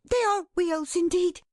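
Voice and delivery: high, agitated character voice; breathless agitation as the moment nears; panted excitement. A narrator's reading. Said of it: "she panted".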